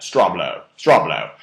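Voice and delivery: "straw blow" repeated with a falling tune; deliberate STRAW BLOW. Shown as a demonstration. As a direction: land each "straw blow" as its own punchline. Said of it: "You gotta say it like that".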